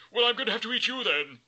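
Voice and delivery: high, loud hammed-up threat; threatening troll. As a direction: menace the goat, playfully.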